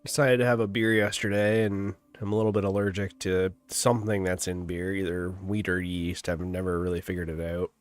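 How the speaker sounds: blocked nose, talking through congestion; stuffy nose. Real, not acted. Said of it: "My nose is all stuffy".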